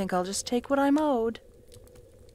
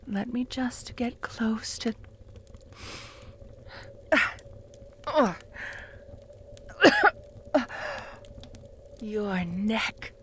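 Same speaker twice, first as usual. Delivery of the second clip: whisper; 4 dB quieter, slower than usual. Acted.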